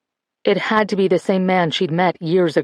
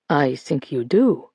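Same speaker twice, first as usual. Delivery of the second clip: forced calm; 4 semitones lower, slower than usual. Acted. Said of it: "trying to keep her tone calm".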